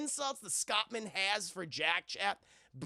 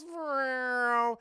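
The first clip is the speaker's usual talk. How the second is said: imitated bagpipe noise; 5 semitones higher, 5 dB louder than usual.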